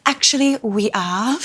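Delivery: smug, triumphant put-down; tipsy and pleased with herself; smug reply. Retold or imitated. Telling the queue-jumpers they are platinum, smug. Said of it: "I'm like".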